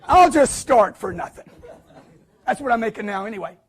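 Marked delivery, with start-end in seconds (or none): 0.0-1.5 laughing. Real, not acted. Joking offer to work free.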